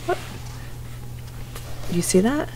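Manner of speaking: very slow, soft whispered question; hushed whisper. Acted. Teacher pointing out sprouting seed, slow whisper. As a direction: draw them in with a slow whisper.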